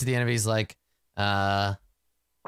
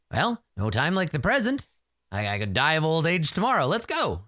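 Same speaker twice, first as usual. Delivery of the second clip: high, lively rallying call; higher-pitched, spirited send-off; brisk rallying; 5 semitones higher than usual. Acted. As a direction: rouse yourself to get going. Hermit briskly rallies himself to leave.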